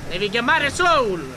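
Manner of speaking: drawn-out loud call again; loud slow call. Acted. Repeats the call to Soul.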